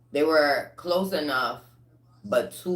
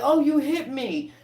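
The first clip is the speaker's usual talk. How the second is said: mock whiny victim; 11 semitones higher, 4 dB louder than usual. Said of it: "they're like".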